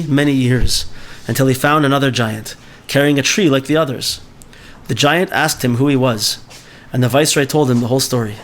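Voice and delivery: steady storytelling read-aloud; story reading. Acted. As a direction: read the tale to the class.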